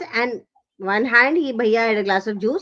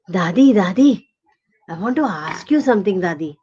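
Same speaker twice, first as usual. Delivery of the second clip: lower, insistent little plea; coaxing call; 6 semitones lower than usual. Acted. Boy moving closer to dozing grandmother, coaxing. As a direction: call her twice, then ask low. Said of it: "went closer to her and he said".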